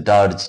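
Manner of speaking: ডার্জ said as "darj", ending in a j sound; pronunciation of dirge. Shown as a demonstration. Teacher shows learners how dirge is pronounced, ডার্জ said as "darj". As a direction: say ডার্জ as one syllable, "darj". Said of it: "উচ্চারণটা হচ্ছে".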